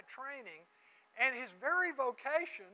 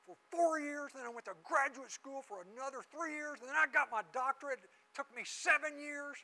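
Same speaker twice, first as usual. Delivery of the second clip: upset professor; 5 semitones higher than usual. Retold or imitated. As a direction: mimic the offended professor, getting angrier. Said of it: "foaming at the mouth".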